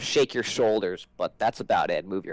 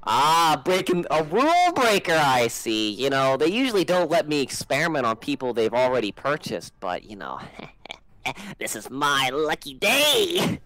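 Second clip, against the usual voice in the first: higher, gloating mad scientist voice; mad wizard; 3 semitones higher than usual. Acted. Wizard gloating over his new test subject. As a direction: relish the find like a giddy villain.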